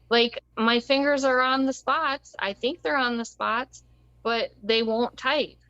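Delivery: imitating her own teary confusion, mildly; lightly voiced panicked self, not really crying; retold tearful plea. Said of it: "and I was crying".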